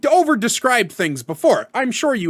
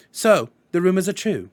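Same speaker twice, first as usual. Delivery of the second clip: lightly mimicked haughty schoolboy; a hint of a British film-villain boy; measured, lightly put-on English accent; Draco Malfoy. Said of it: "I mimicked Draco Malfoy".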